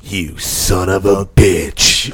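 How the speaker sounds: very slow, drawn-out movie insult; slow old-movie tough guy. Pretend. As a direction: stretch every word like a classic film heavy. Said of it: "They used to love saying".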